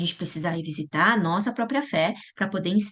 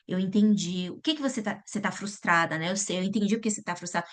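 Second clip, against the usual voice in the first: put-on soft, gentle reassurance to a frustrated child; calm parent comforting a frustrated daughter; validating parent; 4 dB quieter than usual. Shown as a demonstration. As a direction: quietly acknowledge her feelings.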